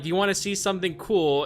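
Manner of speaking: put-on a half-hearted British girl voice; British accent. Retelling the British girl from the game, light British accent. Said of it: "in her British accent".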